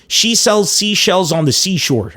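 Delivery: slow, deliberate first run at the tongue twister; measured practice read; careful tongue twister. Shown as a demonstration. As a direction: pick through each word slowly. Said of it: "I'll do a tongue twister challenge".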